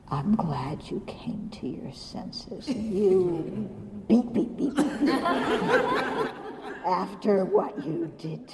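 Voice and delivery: mock gracious forgiveness, half-laughing; smug whisper. Teacher to the groveling monk, smug laughing whisper. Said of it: "I'll say".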